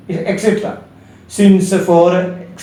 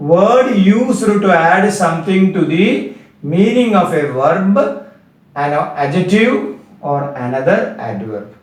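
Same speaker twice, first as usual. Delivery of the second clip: slow dictation; much slower than usual. Shown as a demonstration. Teacher dictates definition slowly.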